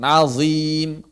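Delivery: "Azim" with a heavy z, then a light long i; thick only at onset. Shown as a demonstration. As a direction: say "Azim" thick on the z only, thinning straight after. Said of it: "zi-nya saja di awal".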